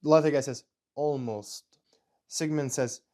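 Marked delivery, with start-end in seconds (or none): 0.9-1.8 hushed, voiceless echo of the word; whispered. Acted. Officer echoing the scientist's verdict, whispered. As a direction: whisper it back in character.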